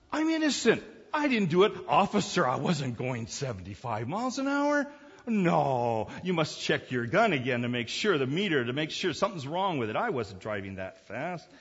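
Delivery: mock pleading speeder.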